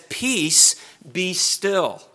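mildly stern order to a storm; sharp rebuke. Retold or imitated. Jesus rebuking the sea, sharp but contained. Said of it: "with a sharp and rebuking tone".

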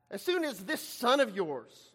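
understated sarcasm, disowning a brother; a touch of scornful accusation; sarcastic. Acted. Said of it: "you hear the sarcasm there".

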